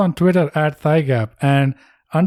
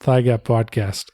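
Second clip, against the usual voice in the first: slow, grand mock-announcer tribute; solemn announcer; much slower than usual. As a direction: intone it like a legend's introduction.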